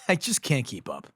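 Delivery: soft, worn-out sigh of a delivery; weary and faltering; exhausted. Acted. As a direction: let it trail off softly, drained. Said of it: "I'm just so exhausted".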